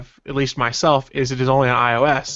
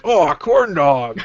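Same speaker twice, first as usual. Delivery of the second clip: excited; 4 semitones higher, 4 dB louder, slower than usual. Retold or imitated. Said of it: "I'd be like".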